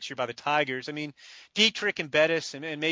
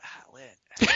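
voiceless, strangled rasp; lost-voice imitation. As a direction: imitate someone who literally can't speak. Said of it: "I literally can't speak".

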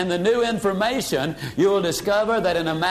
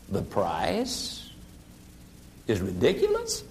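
lowered voice; 10 semitones lower, 8 dB quieter than usual. Shown as a demonstration. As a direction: echo it back low and calm as a question. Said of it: "you simply lower your voice".

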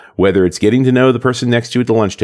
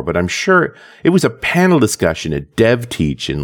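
ordinary delivery

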